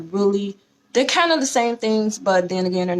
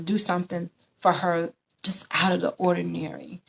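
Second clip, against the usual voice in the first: whisper. Real, not acted. Reading the book's advice aloud.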